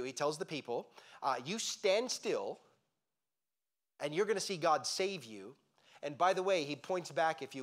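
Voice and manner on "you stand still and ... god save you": measured, higher-pitched proclamation; lightly acted leader addressing a crowd, slowly; retold command. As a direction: declare it slowly, with a long pause midway. Moses retold commanding the people.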